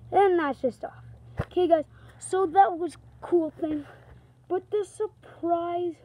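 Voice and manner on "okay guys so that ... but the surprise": inside a football helmet. Real, not acted. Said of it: "I got my helmet on".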